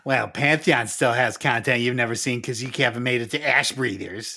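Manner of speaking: mock Canadian accent; imitating a Canadian gamer. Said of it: "That was my Canadian accent".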